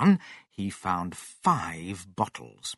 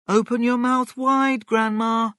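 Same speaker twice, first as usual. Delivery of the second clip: put-on high, raised little-boy voice; George's voice; 13 semitones higher, 4 dB louder than usual. A narrator's reading. George offers Grandma the spoon, high and raised. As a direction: coax her in a high, loud voice. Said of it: "said George".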